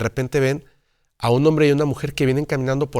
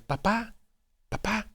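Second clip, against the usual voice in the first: put-on a daughter calling her dad on the beach in a child's voice; 9 semitones higher, 11 dB quieter than usual. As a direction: call papá like a small girl from afar. Little girl calling from afar.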